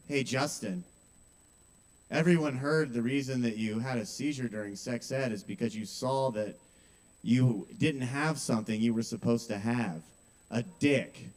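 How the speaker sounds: low, understated delivery of a taunt; mean schoolgirl. Retold or imitated. Acts out mean schoolgirl's put-down.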